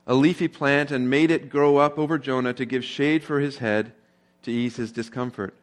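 measured Bible reading to the congregation; scripture reading. Acted. Pastor reading Jonah aloud to the church, a steady scripture read. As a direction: read the verses out, steady and clear.

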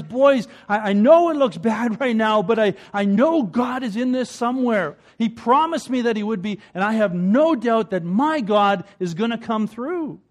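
put-on rally the boys with faith; hopeful father.

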